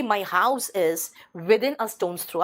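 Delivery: "My house is within a stone's throw" read very slowly with a fall on "within"; slow teacher model. Shown as a demonstration. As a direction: read it out slowly for the class to copy. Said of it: "तो मैं कहूँगी".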